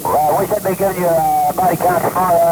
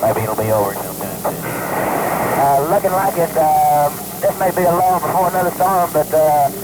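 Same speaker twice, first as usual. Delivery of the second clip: crackly military radio. Real, not acted. Pilot and ground camp on radio.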